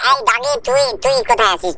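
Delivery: put-on very high, bratty child voice calling out; squeaky little brat yelling for his friend; cheeky cartoon kid. Kid calling for Doraemon, high squeaky voice.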